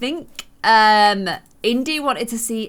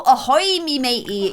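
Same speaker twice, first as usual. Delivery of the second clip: pirate greeting. Pretend. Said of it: "Why don't you go".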